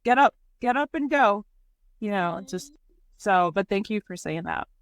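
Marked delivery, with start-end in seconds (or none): 0.0-1.4 louder, higher pep talk to herself; self-pep talk. Retold or imitated. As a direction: shake herself out of sadness. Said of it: "but I'm like".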